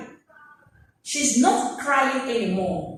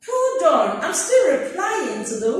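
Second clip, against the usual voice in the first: louder, laughing hold on; laughing protest; 3 semitones higher, 3 dB louder than usual. Pretend. Student tells an interrupter to wait, laughing. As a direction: push back at the intruder through a laugh. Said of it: "And you're like".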